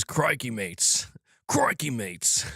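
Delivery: put-on slow, rough stab at an Australian accent; attempted Australian accent. Streamer reading a chat greeting, attempted Australian accent. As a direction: try Australian, not quite getting it. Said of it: "a proper Australian accent".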